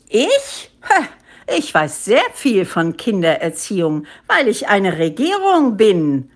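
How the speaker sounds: lightly voiced monkey ruler, emphatic; pompous head ape. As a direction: puff yourself up as the government.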